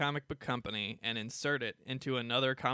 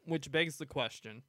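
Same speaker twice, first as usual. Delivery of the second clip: talking through a mouthful; words round a bite of food; mouth full; 4 dB quieter than usual. Real, not acted. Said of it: "Sorry, I got my mouth full".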